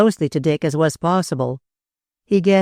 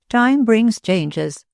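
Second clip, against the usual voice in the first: slow higher echo; 6 semitones higher, much slower than usual. Acted. The speaker repeats phrase, higher.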